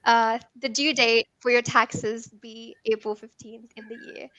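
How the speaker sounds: lightly voiced pirate reading; hint of a hammy pirate. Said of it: "excuse my pirate, um, voice".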